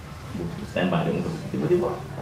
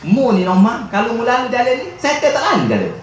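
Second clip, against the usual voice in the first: quoting the Prophet; 9 semitones higher than usual. Retold or imitated. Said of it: "Siapa kan Nabi sebut".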